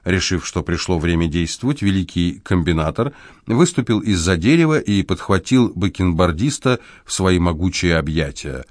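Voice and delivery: ordinary delivery, nothing marked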